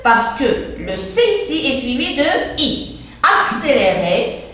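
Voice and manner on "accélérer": "Accélérer" with cc said "ks"; double C as ks. Shown as a demonstration. Teacher showing C before E, "Accélérer" with ks. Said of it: "j'entends X".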